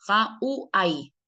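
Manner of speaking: HAWÁI slowly as "ha-u-ai"; Hawái drawn out, W sounded like Spanish U. Shown as a demonstration. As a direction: say Hawái with the W as an oo glide. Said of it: "la W suena como U".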